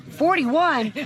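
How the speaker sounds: incredulous rising question; shocked disbelief. Retold or imitated. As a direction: act shocked at the age. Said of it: "And he says".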